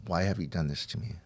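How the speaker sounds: softly retold plea to God; subdued plea. Addict asking God in the rain, subdued.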